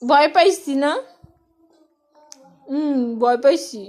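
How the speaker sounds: loud playful pretend fear; mother pretending to be scared to make baby laugh; mock fright. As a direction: ham up being scared for the baby.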